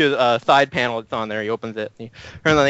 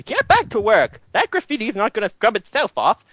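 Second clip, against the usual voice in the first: higher, bossy rambling; bossy professor; 4 semitones higher than usual. Acted. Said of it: "He says".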